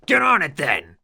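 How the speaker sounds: high, loud, weak attempt at toughness; failed gruff shout. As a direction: bark it but come off feeble. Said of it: "in an impotent attempt at gruffness".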